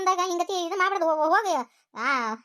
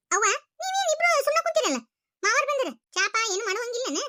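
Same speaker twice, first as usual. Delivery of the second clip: tearful; 6 semitones higher than usual. Acted. Daughter greets guests, voice breaking.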